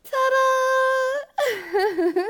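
high, loud nervous reveal; excited ta-da. Acted. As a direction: burst out with a giggle. Reveals the costume.

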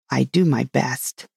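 mildly sulky messenger; a touch of sullen protest, understated. A narrator's reading. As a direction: answer back with a slight sulk. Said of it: "said in a sulky tone".

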